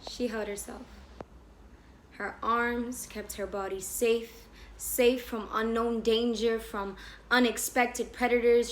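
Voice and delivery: measured, deliberate poetry recital; spoken-word storytelling, unhurried; spoken-word poem. Acted. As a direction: recite slowly with weighted pauses.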